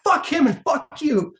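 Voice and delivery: high, loud, slow snarl; defiant promo shout. Retold or imitated. Wrestler defying rival and the booing crowd, shouted. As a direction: spit it at the whole crowd. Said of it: "And I'm like".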